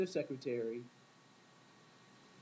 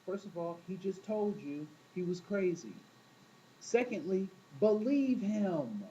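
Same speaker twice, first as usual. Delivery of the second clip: Maya Angelou advising; 3 semitones higher, slower than usual. Retold or imitated. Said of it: "Maya Angelou was like".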